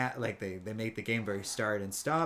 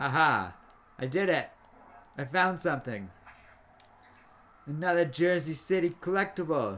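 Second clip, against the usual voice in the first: poor fake New Jersey accent, high; 5 semitones higher, 4 dB louder than usual. Finding a Jersey City collectible, in a bad New Jersey accent. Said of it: "I don't think I'm doing a good New Jersey accent".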